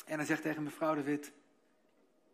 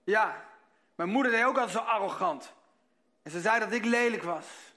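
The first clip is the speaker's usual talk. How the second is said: put-on indignant old woman; 7 semitones higher, 9 dB louder than usual. Old woman tells nurse about mother.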